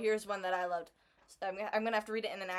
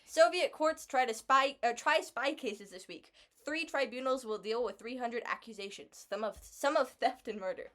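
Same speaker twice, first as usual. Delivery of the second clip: English accent; 3 dB louder than usual. Shown as a demonstration. Rereading the headline so the listener understands, in a mild English accent. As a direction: read it back in a plain, careful English accent. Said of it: "In, in a more English accent".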